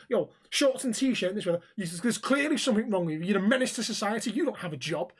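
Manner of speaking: retold angry rant. Stranger berating the walker over his clothes, mock-angry. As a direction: imitate a worked-up busybody laying into someone.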